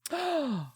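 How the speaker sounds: high, soft gasp; sharp gasp. Real, not acted. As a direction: gasp in sudden reaction. Reacts on returning to the stream.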